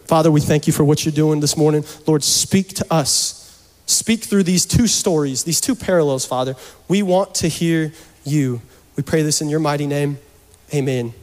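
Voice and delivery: low, earnest public prayer. Real, not acted.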